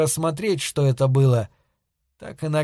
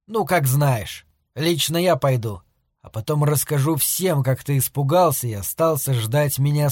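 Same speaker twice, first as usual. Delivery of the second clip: contemptuous. Acted. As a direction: toss it off with light contempt. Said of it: "бросил презрительно и как бы невзначай".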